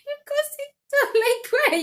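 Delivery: high, loud exclamation; excited outburst. Real, not acted. Exclaiming to viewers about needless stress, high and loud. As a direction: blurt it out in disbelief.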